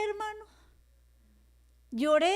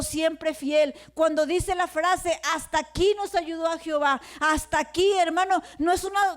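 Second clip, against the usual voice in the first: raised, emphatic sermon delivery; fervent preaching; 4 dB louder than usual. Real, not acted. Pastor testifying to the congregation of God's faithfulness, fervent preaching. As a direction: preach it with drive, stretching phrase endings.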